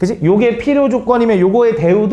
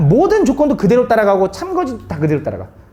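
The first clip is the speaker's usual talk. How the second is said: ordinary delivery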